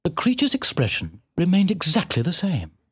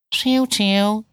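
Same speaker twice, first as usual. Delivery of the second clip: high, drawn-out cat voice; bitten-off words; 8 semitones higher than usual. A narrator's reading. Cat curtly questioning the piglet, words bitten off. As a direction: bite each word off and spit it out. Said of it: "seemed to bite off its words and spit".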